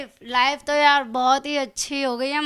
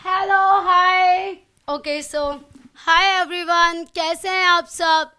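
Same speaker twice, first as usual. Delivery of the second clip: louder, showy greeting to fans; Bigg Boss style hello; 5 dB louder, slower than usual. Acted. Guest greets fans the way she spoke to Bigg Boss, louder. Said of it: "जैसे आप बिग बॉस से बात करती थी".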